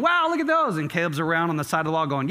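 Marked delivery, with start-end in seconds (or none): 0.0-0.8 amazed wow. Retold or imitated. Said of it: "Everyone's going".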